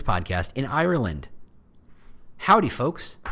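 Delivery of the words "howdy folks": put-on a light, playful Texas accent on the greeting. Podcast host jokingly greets his Irish listeners in a Texas accent. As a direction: greet them like a friendly Texas cowboy, Texas accent. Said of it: "he says in a Texas accent".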